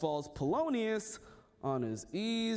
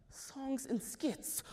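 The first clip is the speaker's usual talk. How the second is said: softer, slow and dawning; musing; 5 semitones higher, 5 dB quieter, much slower than usual. Acted. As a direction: savor the idea quietly. Hamlet gets an idea.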